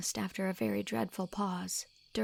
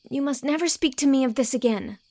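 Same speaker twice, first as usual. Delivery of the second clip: desperate exclamation; 7 semitones higher, 9 dB louder than usual. Acted. Anne refusing Gilbert's hope, desperate. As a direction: cry it out in desperation. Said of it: "exclaimed Anne desperately".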